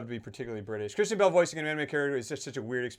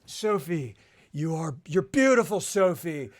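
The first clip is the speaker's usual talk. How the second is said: Christian Bale's dub; 2 semitones higher, 5 dB louder, slower than usual. Retold or imitated. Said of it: "Like, he just goes".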